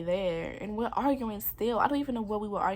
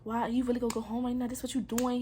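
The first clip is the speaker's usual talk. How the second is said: mild mock yell, higher and quicker; retold yelling; 4 semitones higher, 3 dB louder, faster than usual. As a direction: imitate his agitated yelling without full volume. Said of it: "he's yelling at me, yelling, like".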